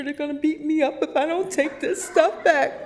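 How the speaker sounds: high, far voice of the anxious coworker; Sherry voiced. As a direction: play the friend pleading in a high voice. Quoting Sherry's worried plea.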